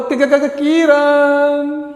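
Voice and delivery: slow stammered कि- कि- कि- before Kiran; Shah Rukh Khan stutter. Retold or imitated. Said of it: "Shahrukh Khan जब किरण का नाम लेता है तो कैसे बोलता है". (शाहरुख खान की तरह हकलाते हुए किरण)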